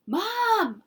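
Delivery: high loud call; holler. Acted. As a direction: call for mom urgently. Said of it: "I hollered".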